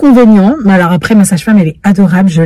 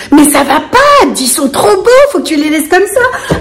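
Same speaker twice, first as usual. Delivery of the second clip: higher, laughing imitation of the girl; imitating Elsa; 6 semitones higher than usual. Elsa insisting she keep her hair, lightly imitated higher. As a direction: gush a little, playfully. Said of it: "Elle me dit".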